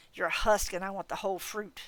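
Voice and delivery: scornful fae aunt scolding a fool; a hint of a cold, proud godmother; haughty faerie godmother. Leah the faerie godmother speaks.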